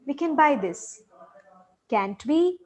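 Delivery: statement coming down, then CAN'T WE lifted at the end; question-tag intonation. Shown as a demonstration. Teacher practising a tag asking for confirmation, question-tag intonation. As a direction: set "can't we" apart after a pause, turning it up. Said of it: "let's practice our intonation on this".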